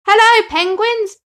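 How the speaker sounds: high, loud happy greeting; joyful shout. Acted. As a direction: shout hello from the water. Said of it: "Henry shouted".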